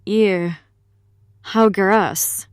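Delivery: loud grossed-out recoil; disgusted. Acted. After gulping the strange drink, loud disgust. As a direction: recoil at the taste.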